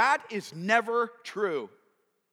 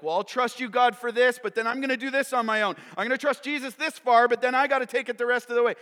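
raised, hurried self-justifying voice; mock half-hearted believer; 4 semitones higher, 5 dB louder, faster than usual. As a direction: act out someone bargaining with God.

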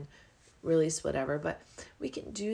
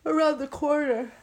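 excited; 9 semitones higher, 9 dB louder than usual. Acted. Playful suspense phrase.

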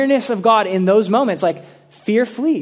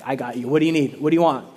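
reassuring; 5 semitones lower, much faster than usual. Retold or imitated. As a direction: reassure like a loyal guardian. Protector voiced reassuringly.

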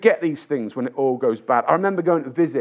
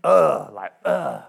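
louder, scornful mock of a cynic; cynical scoff; 6 dB louder, slower than usual. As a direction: scoff like the doubting brother. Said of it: "his brother was so cynical".

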